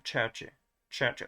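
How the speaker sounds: church opened with a hard "tch"; affricated consonant. Shown as a demonstration. Teacher tries affricating this one too, affricated church. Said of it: "also going to affricate this one".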